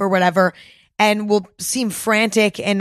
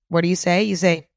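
ordinary delivery

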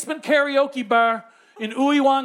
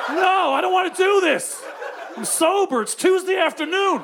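higher, mildly panicked mock protest; protesting refusal; 5 semitones higher than usual. Sober guest refusing Mister Kim's plan, acted protest. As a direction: object insistently, pitch lifted.

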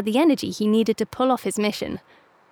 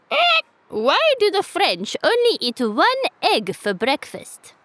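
high rooster voice setting up a joke; joking cockerel; 8 semitones higher than usual. A narrator's reading. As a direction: lay out the riddle with relish.

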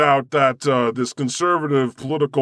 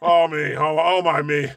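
laughing sighs; 3 semitones higher than usual. Real, not acted. Recovering from laughter.

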